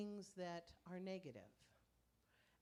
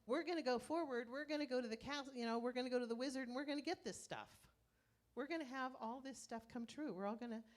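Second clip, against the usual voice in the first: louder, higher, quick rallying declaration; determined rallying cry; 3 semitones higher, 4 dB louder than usual. Retold or imitated. The Oz friends rallying each other, loud and determined. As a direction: pump the friends up to march on. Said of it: "What they did is they said".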